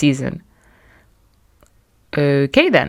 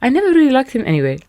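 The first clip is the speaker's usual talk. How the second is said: imitating mum; 6 semitones higher, faster than usual. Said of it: "My mum saw the post first and said".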